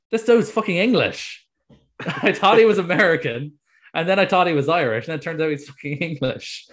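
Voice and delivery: loud, high-pitched incredulous retelling; high and loud, utterly thrown; astonished disbelief. Retold or imitated. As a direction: blurt out the baffling discovery, laughing partway. Retelling his astonished discovery.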